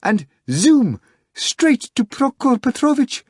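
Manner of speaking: high, breathless excited telling; agitated retelling. A narrator's reading. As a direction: rush through the story in a nervous panic. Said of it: "quivering in agitation".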